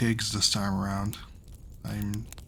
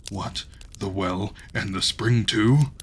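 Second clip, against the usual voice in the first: growl; 4 dB louder, slower than usual. Acted. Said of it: "growled the giant in his beard".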